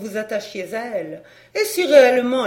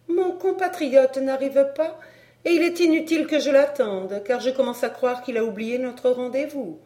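lightly voiced lady, a touch higher; foreign countess; 5 semitones higher than usual. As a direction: lightly play the countess in conversation.

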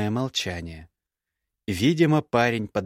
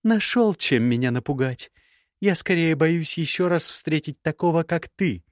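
put-on young woman's voice pitched higher, cool and cutting; higher, cool scornful young woman; Gerda's voice; 7 semitones higher than usual. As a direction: play the proud, scornful ex-bride. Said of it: "парировала девушка".

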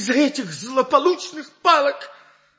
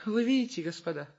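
feigned dying voice; 4 dB quieter than usual. Acted. Dying Scapin asks forgiveness.

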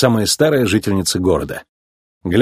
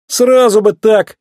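high, loud, drawn-out cry of relief; relieved shout; 11 semitones higher, 5 dB louder, slower than usual. A narrator's reading. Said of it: "крикнул Маккуин с облегчением".

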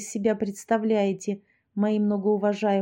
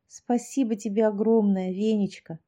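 tender. Acted. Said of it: "ласково сказала я".

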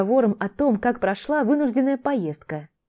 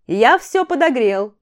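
loud, drawn-out call, pitched higher; 4 semitones higher, 6 dB louder, slower than usual. A narrator's reading. Тарий shouts from the dining room that food is heated, calling out. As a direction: call it through to the next room. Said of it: "Донёсся со стороны столовой голос Тария".

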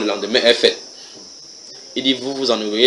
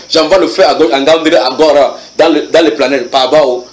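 fiery prayer; 3 semitones higher, 5 dB louder than usual. Acted. Acting out prayer warfare.

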